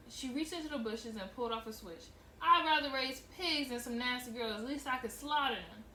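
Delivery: steady storytelling read, voicing each character; audiobook-style reading of a novel; story narration. A narrator's reading. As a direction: read the novel aloud to listeners. Reads novel aloud with voices.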